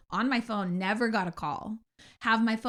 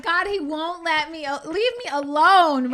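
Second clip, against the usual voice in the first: annoyed groan; 6 semitones higher, 7 dB louder than usual. Retold or imitated. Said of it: "I'm like".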